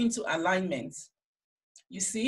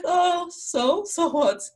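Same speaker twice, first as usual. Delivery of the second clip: high, loud mock defiance; playful, exaggerated comeback; defiant retort; 10 semitones higher, 5 dB louder, slower than usual. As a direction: toss it back at the nagging voice, pitched way up. Talking back to her inner critic.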